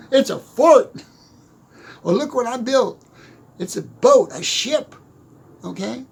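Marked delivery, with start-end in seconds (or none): 0.0-1.0 put-on high, loud, laughing child's boast; bragging kid. Kid brags to a friend about his fort, gleeful. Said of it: "bragging to their friend". 2.1-5.0 lightly voiced proud child, a bit higher; a hint of a kid's boast; bragging kid. Kid shows a friend the boat he built, lightly proud. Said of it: "bragging to their friend".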